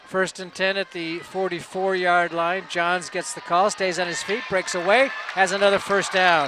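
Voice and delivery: brisk football commentary, lifting at the end; live play-by-play. Real, not acted. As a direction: build toward the first down.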